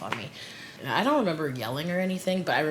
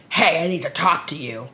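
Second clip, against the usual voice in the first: retold casual opener, only a touch louder; casual approach; 6 dB louder than usual. Friend approaches her at the bar, casual first try.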